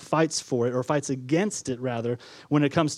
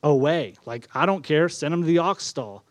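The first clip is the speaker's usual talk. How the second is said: dismissive innkeeper. Acted. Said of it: "in the innkeeper's voice".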